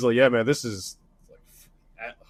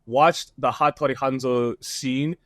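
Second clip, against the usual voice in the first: retold advice; 4 semitones lower than usual. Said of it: "it's very deep".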